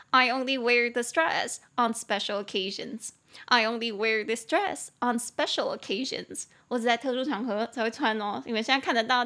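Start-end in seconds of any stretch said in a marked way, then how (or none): 3.5-6.4 slow, careful repeat for learners; unhurried teacher's demonstration at a slow pace; slow model sentence. Shown as a demonstration. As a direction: take the English sentence slowly, word by word.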